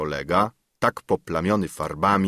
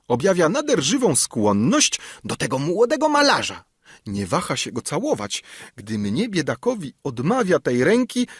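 high-pitched, plaintive complaint; tearful whine; 7 semitones higher than usual. A narrator's reading. Jilted secretary complains about the young painter, tearful. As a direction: whine with swooping self-pity. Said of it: "rzekł sekretarz płaczliwie".

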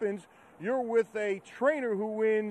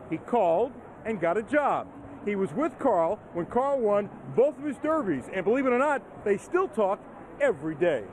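measured TV feature voiceover; news feature narration. A narrator's reading. Reporter introduces the trainer from Australia to viewers, feature voiceover. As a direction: read it as a polished sports profile.

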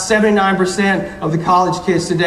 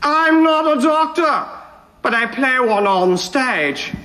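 slow hammy Shakespearean actor; grand tragic wailing; 2 semitones higher, slower than usual. Shown as a demonstration. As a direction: declaim it like an old stage ham. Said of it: "your best Shakespearean actor voice".

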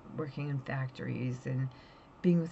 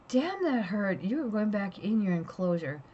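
louder, higher scold of a pet; annoyed scolding; 4 semitones higher, 3 dB louder than usual. Retold or imitated. Owner scolding Java after the bite, sending her back. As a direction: tell the biting lizard off. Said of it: "and I'm like".

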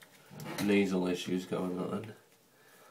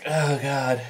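strained groan, higher and louder; during a neti pot rinse; 5 semitones higher, 5 dB louder than usual. Real, not acted. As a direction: groan as saline runs through the nose. Mid sinus rinse, water in nose.

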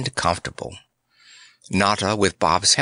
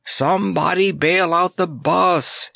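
higher, panicked cry for help; frantic yell as water floods in; terrified shriek; 7 semitones higher than usual. Acted. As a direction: shriek it in real terror. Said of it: "he shrieked in real terror".

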